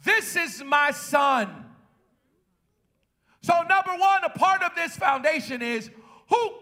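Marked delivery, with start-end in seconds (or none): 0.0-1.7 voice of the Father. Acted. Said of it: "Jesus hears the Father say".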